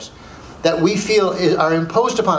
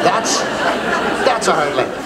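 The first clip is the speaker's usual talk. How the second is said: laughing; much slower than usual. Real, not acted. Mock definition, laughing.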